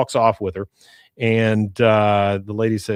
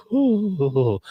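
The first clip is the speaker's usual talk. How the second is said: high, drawn-out "ooh"; long retold "ooh"; aroused ooh; 7 semitones higher than usual. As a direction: imitate a smitten man's ooh. Bill reacts as lady undresses.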